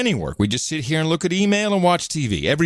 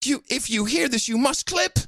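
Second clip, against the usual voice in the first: mock incredulous voice; 10 semitones higher, 3 dB quieter than usual. Mock voice scolding co-host.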